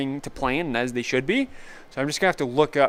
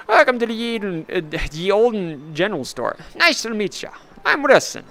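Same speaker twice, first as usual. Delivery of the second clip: higher, lightly voiced old shopkeeper; a hint of a creaky old man; 8 semitones higher than usual. Shopkeeper Wilson welcoming a customer, light old man voice. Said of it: "I'm giving you an old man voice".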